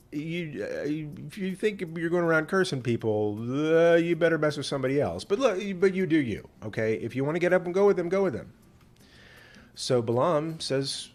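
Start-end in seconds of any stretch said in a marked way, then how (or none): 0.1-8.5 God's voice. Acted. God voiced warning Balaam.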